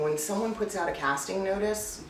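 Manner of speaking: usual speaking voice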